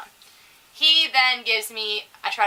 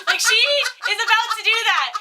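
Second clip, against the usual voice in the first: high, loud, laughing exclamation; laughing disbelief; 11 semitones higher, 5 dB louder than usual. Real, not acted. Friends cracking up over the story, incredulous and shrieking. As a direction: squeal it through laughter.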